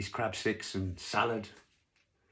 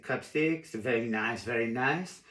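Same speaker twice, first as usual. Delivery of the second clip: put-on French waiter accent; slower than usual. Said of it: "'cause he was French".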